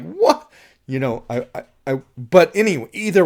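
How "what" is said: high, sharp, frantic yelp; panicked shriek. Shown as a demonstration. Director showing Sarah out of her mind, frantic shriek. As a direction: yelp it in terror. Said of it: "out of her mind, almost, like".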